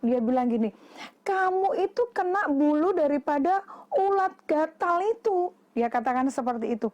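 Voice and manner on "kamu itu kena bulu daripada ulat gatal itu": lightly voiced mother, pitched up; mildly acted motherly explanation; higher storybook voice for a mother; concerned mother. Mother explains sting to child.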